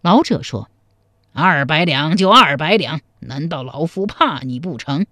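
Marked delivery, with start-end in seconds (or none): 1.3-5.1 put-on a touch of an old chess player, unafraid; lightly voiced old man. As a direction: lightly play an old man taking up the bet. (略带老者腔，毫不示弱)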